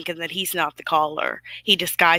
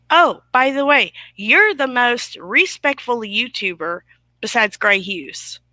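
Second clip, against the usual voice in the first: mocking quote; 3 semitones higher than usual. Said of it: "He told me the same exact thing".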